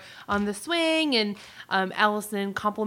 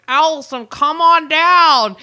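calling out; 5 semitones higher, 11 dB louder than usual. Acted. Billy calling Allison downstairs, mock cheerful shout. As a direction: sing it out up the stairs.

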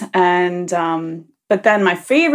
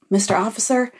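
aggrieved caller. Pretend. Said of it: "I wish I could have heard that phone call".

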